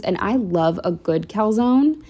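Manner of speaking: good given the weight in the line; good is the word that lands; stress on good. Real, not acted. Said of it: "Emphasis on the word good".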